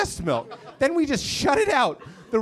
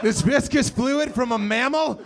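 hammed-up thirsty guy gulping milk; mock milk drinker. Roommate coming home on a hot day, in mock thirsty relish. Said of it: "just like".

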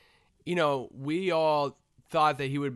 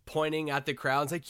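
normal talking voice

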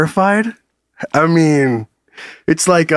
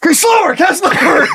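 nervous pleading; 11 semitones higher than usual. Pretend. Nervous hero before takeoff.

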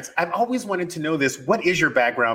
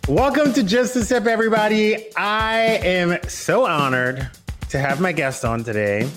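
show host introduction. Acted. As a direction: announce the guest with building fanfare.

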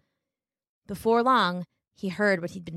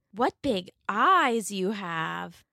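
put-on a small girl minding her manners; little girl; much slower than usual. Girl, slow.

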